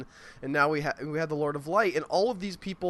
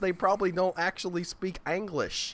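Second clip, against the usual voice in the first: mock West Virginia drawl. Podcaster mocking fantasy accents, in a West Virginia accent. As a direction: play a folksy West Virginia yokel. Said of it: "the sort of British accent".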